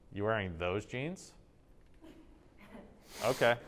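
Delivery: lightly judging question, then a pointed okay; a little jab disguised as a question; passive aggressive. Shown as a demonstration. Teacher showing a passive-aggressive remark about jeans, lightly snide. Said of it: "passive aggressive".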